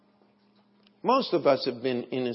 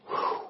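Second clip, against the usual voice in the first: retold relieved whew.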